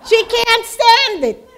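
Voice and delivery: slow, high laughing delivery. Real, not acted. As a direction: laugh through the words at herself. Laughing about her compulsion.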